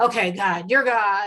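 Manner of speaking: mock gritted-teeth tone. A speaker acts out grudgingly giving in to God, mock gritted-teeth grudging tone. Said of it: "giving into you with through gritted teeth".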